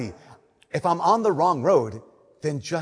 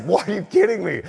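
incredulous, slightly raised voice; frustrated disbelief; 4 semitones higher, 3 dB louder than usual. Retold or imitated. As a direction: retell your own exasperated protest to the priest. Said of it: "so frustrated and so annoyed".

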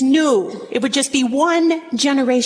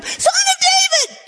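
desperate shout. Acted. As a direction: yell over the crowd. Beggar crying louder.

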